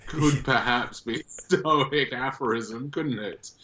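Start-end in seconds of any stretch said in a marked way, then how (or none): none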